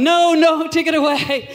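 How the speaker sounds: high pleading mock refusal; mock-panicked refusal. Someone refusing a second donut, mock panic. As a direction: push it away in comic panic.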